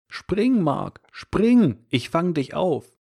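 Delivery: high, loud urgent call upward. Acted. Father calling up to his son at the window, loud and urgent. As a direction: shout up to the burning window. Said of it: "rief ihm hinauf".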